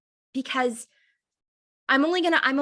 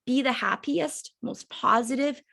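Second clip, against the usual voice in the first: hoarse, fading voice; losing voice. Real, not acted. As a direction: voice giving out mid-sentence. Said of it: "I'm losing my voice".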